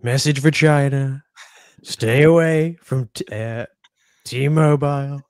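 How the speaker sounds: a hint of Trump warning China; Donald Trump impression. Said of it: "Donald telling the Chinese state-sponsored actors".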